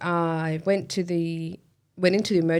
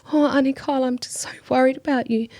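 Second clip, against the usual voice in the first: put-on breathy high whisper of a ten-year-old; hushed child's voice, higher; worried little girl; 8 semitones higher than usual. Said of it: "She's like".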